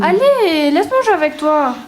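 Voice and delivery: put-on high, childish plea to join the game; little girl voice. Little sister begging to play the video game, childish high voice. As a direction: ask sweetly like a small girl.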